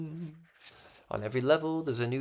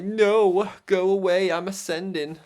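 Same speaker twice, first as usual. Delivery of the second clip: high, loud mock refusal; playful hammed-up shout of triumph; 8 semitones higher, 11 dB louder than usual. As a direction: shoo them off grandly, hamming it up. His mock reply to envious people.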